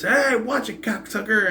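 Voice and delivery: high-pitched mock yell; imitated yell. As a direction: imitate an annoying man yelling, pitch jumped up. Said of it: "Is him yelling out".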